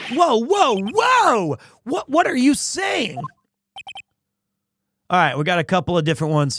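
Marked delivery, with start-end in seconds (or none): 0.1-3.2 high-pitched, startled objection; alarmed protest. Acted. Game character hearing client called murderer, high alarmed protest. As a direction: jump in high to halt the speaker. Shocked reply to a murder accusation.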